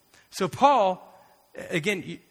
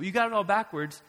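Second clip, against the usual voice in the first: a touch higher, calmer rebuke; Jesus, lighter take; 5 semitones higher than usual. Retold or imitated. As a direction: restate it more gently. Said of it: "I'm very much paraphrasing".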